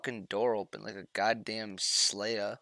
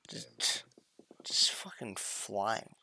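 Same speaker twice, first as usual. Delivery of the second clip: slow, breathy whisper; 2 semitones lower, 7 dB quieter, slower than usual. Pretend. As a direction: drift off as if floating away. Stoned riff, drifting off.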